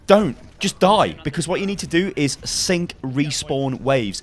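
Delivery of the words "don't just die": loud, pitched-up "don't"; sharp command. Real, not acted. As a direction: cut them off firmly. Emphatic command to viewers.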